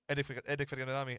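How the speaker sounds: tripping over the name; stuttering. Real, not acted. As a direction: stumble on the start of the name. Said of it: "I can't even say it without stuttering".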